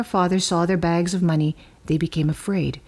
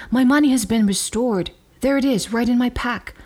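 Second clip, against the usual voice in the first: higher-pitched, startled exclamation; astonished discovery; 5 semitones higher than usual. A narrator's reading. Brother tells the others of his returned money, astonished. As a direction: exclaim it in raised-pitch amazement.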